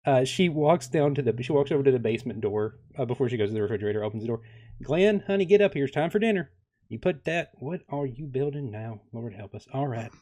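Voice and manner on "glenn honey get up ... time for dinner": mom calling downstairs. Acted. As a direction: call him up to dinner like a mom. Mom calls husband from basement door.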